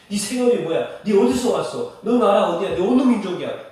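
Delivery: loud volley of questions; pressing interrogation. Acted. Sailors grilling Jonah about who he is, pressing and loud.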